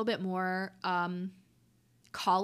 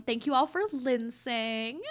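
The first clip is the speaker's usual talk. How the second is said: podcast sign-off; 2 semitones higher, slower than usual. Acted.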